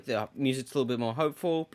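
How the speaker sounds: soft, quick hushed narration; whisper-like aside. Shown as a demonstration.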